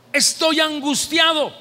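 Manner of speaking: anguished cry to the Lord. Acted. Preacher crying out to the Lord in anguish. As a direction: cry out your distress to God.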